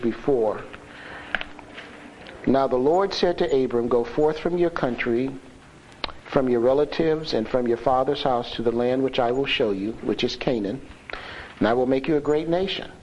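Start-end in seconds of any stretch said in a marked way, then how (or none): 2.5-12.9 scripture reading. Real, not acted.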